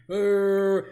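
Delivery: short mock demonic "uh"; deep Satan growl. Guest shows a deep Satan voice, demonic grunt. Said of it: "deep voice like Satan".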